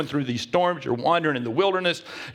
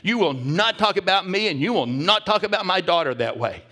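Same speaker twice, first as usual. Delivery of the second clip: defiant bristling retort; 5 semitones higher, 4 dB louder than usual. Retold or imitated. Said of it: "she could have bowed up".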